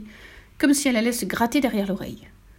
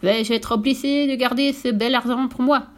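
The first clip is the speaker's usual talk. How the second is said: appel moqueur; 3 semitones higher than usual. Acted. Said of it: "cria le directeur".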